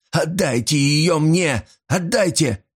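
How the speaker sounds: high, slow, breathless plea; gasping demand. A narrator's reading. Old man demands the brooch from Paul, gasping plea. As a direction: demand it as if short of air. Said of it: "задыхаясь, проговорил Аарон".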